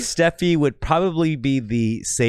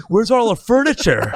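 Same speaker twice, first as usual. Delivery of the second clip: baffled; 10 semitones higher, 5 dB louder than usual. Pretend. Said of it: "they're like".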